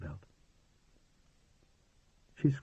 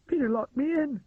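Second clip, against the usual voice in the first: high, tearful complaint; tearfully; 3 dB louder than usual. A narrator's reading. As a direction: tell on him through tears. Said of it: "she said tearfully".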